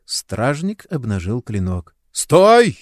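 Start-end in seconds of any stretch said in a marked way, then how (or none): 2.1-2.8 громкий резкий окрик «Стой!»; крикни стражнику, чтобы замер. A narrator's reading. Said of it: "закричал Кугель". (Кугель кричит стражнику: громкий окрик)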